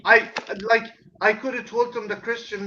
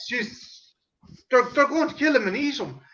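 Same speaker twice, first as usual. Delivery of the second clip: higher and louder, laughing through the quote; laughing retelling; 6 semitones higher, 6 dB louder than usual. Retold or imitated. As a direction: laugh while doing dad's outburst. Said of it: "dad's reaction, laughing through it".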